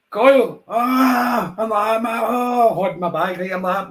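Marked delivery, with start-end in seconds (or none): 0.1-1.5 loud, high excited yell of a name; excited shout. Retold or imitated. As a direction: call out to him in sudden excitement. Excited shout to his mate.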